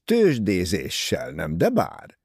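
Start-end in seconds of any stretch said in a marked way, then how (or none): none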